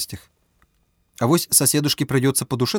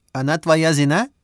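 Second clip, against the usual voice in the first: put-on higher accented question; Chinese accent Russian; 4 semitones higher than usual. A narrator's reading. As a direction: Bao asks in accented Russian. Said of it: "спросил Бао".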